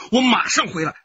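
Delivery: loud, high, close to crying; tearful promise. Acted. Husband tearfully promising his wife to return. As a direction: promise it with tears in the throat.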